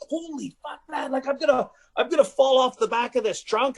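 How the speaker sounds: high-pitched, hammed-up alarm; mock panic. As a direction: imitate panicking as you lose your balance. Acts out panic while falling.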